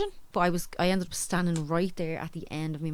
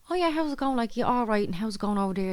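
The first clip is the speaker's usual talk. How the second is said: high-pitched imitation of a caller; breezy retold hello, pitched up; retold phone greeting; 5 semitones higher than usual. Friend ringing from abroad, in a higher imitated phone-greeting voice.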